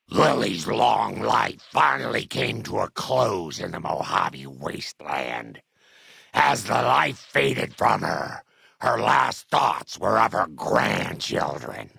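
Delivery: epilogue narration. A narrator's reading. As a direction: narrate a life's ending with weight.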